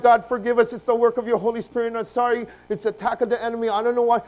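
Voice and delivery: loud, high pleading to God; acted tearful prayer. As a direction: cry out for forgiveness, re-enacted. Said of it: "we pray to God".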